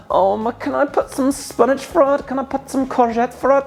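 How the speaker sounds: high-pitched mock questioner voice; imitating people asking. Cook mimicking people asking about adding veg, high mock voice. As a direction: squeak it out as a fussy asker, very high. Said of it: "where people kinda go".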